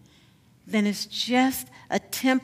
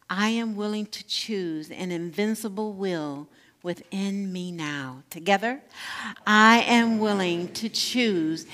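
affirmation leading; 2 semitones lower, 3 dB quieter than usual. Acted. Leads affirmation call and response.

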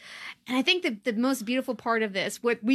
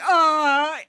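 high, loud mock panic; hammed-up distressed pleading; re-enacted horror; 7 semitones higher, 5 dB louder than usual. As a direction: protest in alarm, pitched way up. Re-enacting their horrified reaction to Steven.

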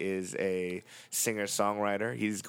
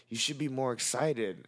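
lightly imitated whiny complainer, a bit higher; 4 semitones higher than usual. Acquaintance wanting a warmer handshake, mildly whiny imitation. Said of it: "whiny voice".

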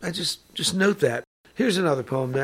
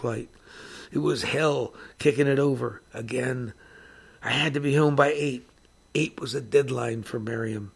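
hardboiled noir poem narration; poem reading. A narrator's reading. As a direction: read it like a tough first-person confession. Reads Bukowski poem aloud.

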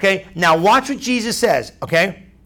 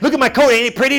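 mock-excited showing off, pitched higher; all excited; 4 semitones higher, faster than usual. Preacher voicing someone showing off their coat, excited. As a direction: act out proud, eager delight. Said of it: "got all excited".

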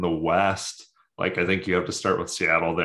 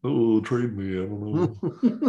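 put-on slow, drawn-out French Canadian accent, a bit higher; slow down and mimic a French Canadian player asking to be traded; 3 semitones higher, slower than usual. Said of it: "That's my best, uh, French Canadian accent".

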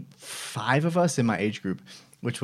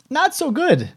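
very high, louder comic admission; mock sheepish reply; 6 dB louder, slower than usual. Admitting to the rep how it went, high mock-sheepish voice. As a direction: squeak it out in mock embarrassment.

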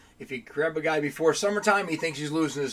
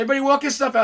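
retold shouted order; 9 semitones higher, 7 dB louder, much faster than usual. Retold boss ordering crew.

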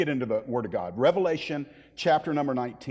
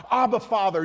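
higher-pitched, yearning call; lightly acted cry of longing; 6 semitones higher, 4 dB louder than usual. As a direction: call out to a father from within. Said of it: "God the Spirit cries out".

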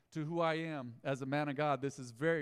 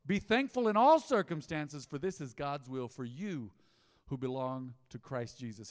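louder preaching burst on the opening words; full-voiced preacher reading the verse; proclaimed verse; 3 semitones lower, 4 dB louder than usual. Shown as a demonstration. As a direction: proclaim it to the whole church.

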